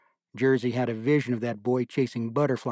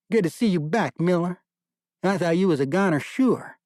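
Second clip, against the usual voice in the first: hearty major; 6 semitones higher, 4 dB louder than usual. A narrator's reading. Major greeting a wounded corporal.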